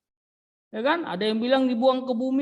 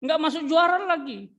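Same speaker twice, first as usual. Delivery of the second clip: mock-indignant devil, pitched up; offended devil; 4 semitones higher than usual. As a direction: play the insulted devil complaining. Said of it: "dia marah iblis itu".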